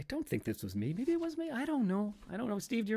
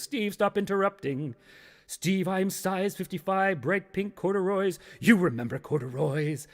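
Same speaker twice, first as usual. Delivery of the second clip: slow, higher, grandly intoned reproach; haunting pants; 6 semitones higher than usual. Acted. Old corduroy pants haunt Steve, slow haunting voice. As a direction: announce yourself slowly like haunted trousers. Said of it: "Pants goes".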